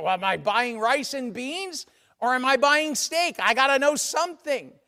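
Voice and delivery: mock exasperation, pressing for an answer; exasperated demand. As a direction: play the frustrated spouse needing answers. Acted spouse demanding to know.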